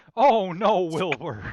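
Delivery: very loud, high-pitched, belted exclamation. Teasing another player who sounded like Mister Ed: imitating Mister Ed. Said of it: "you sounded like Mister Ed".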